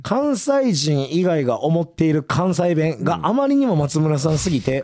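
measured on-air reading of a listener's letter; radio mail read. Acted. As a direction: read the mail out evenly and formally. (ラジオのお便りを読み上げる口調)

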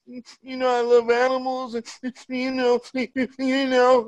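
high, choked-up mock wife; imitating teary wife. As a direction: mimic her crying over animals. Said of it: "She like".

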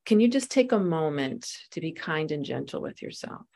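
gentle coaching. Retold or imitated. Coach gently urging Rita to be kind to herself. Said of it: "he said".

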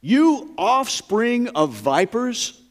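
slow, high, drawn-out mock rebuke; preacher's shout. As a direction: call them vipers slowly, like a prophet thundering.

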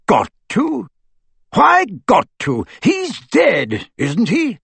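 high-pitched, forceful retort; rough challenge. A narrator's reading. Aberforth challenging Harry's duty, roughly. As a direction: throw it back roughly at him. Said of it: "said Aberforth roughly".

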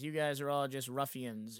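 slow, lightly voiced snobby scene kid; mock house-trance snob. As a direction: dismiss them as a mock genre snob, slowly. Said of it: "that's how they would talk".

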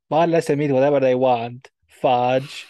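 imitating an Italian actress faking a Southern accent; mock Southern twang from an Italian; Italian doing Southern. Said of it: "she tries to sound like an Italian doing a Southern accent".

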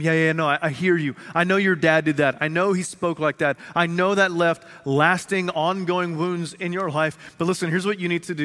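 a gentle counselor reassuring a client; a hint of a counselor. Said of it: "that counselor is going to need to say".

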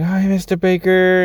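student greeting her teacher at the mall, high and eager; excited little girl. Retold or imitated. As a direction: play the thrilled student saying hi. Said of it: "She's like".

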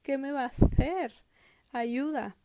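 a child's startled worry, lightly acted; frightened. Heidi realises Rottenmeier is serious, mildly panicked. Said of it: "Heidi se espanta, dice".

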